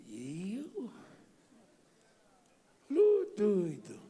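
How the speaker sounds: slow, stretched-out incredulity; mock disbelief. Pastor retells his reply to the deputy, mock disbelief.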